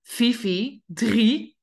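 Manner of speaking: firm countdown to the dog; stern counting to the dog. Shown as a demonstration. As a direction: count down as a warning. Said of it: "Gaan ze vaak tellen".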